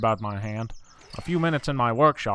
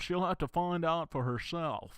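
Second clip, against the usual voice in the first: knowing dean; 5 semitones higher, 5 dB quieter, slower than usual. Acted. Dean answers the gossip.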